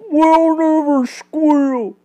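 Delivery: high, drawn-out hoarse cry; hoarse shout. A narrator's reading. The captured three defy their questioner, shouting hoarsely. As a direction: call it out slowly and hoarsely. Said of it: "they shouted hoarsely".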